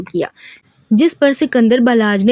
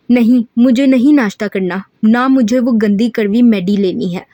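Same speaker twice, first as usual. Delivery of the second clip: pouty anger. Acted. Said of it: "मुंह बनाती गुस्से से बोली".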